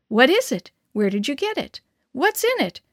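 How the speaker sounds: eager high rush of questions; excited kids all talking at once; excited children. A narrator's reading. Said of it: "we all cried at once".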